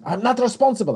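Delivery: retold warning. Friend disclaims risk.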